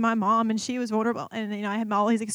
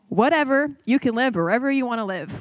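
louder, brusque retold brush-off; unkind dismissal; 4 dB louder than usual. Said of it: "So, yeah, real kind".

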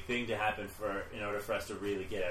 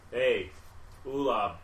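goblin voice; 4 semitones higher, slower than usual. Acted. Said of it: "I was doing a goblin voice".

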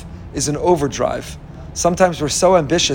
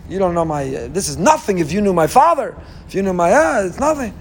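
excuse-making. Retold or imitated. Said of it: "Everyone's got their explanation".

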